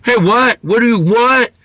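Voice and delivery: high loud confrontational challenge; aggressive. Retold or imitated. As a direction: get in his face. Drunk loser starting a fight.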